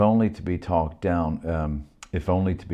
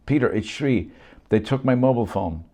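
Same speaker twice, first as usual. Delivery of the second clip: higher, louder urgent caller; Shri's voice; 7 semitones higher, 5 dB louder than usual. Acted. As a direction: push through, anxious to be known. Shri calls urgently.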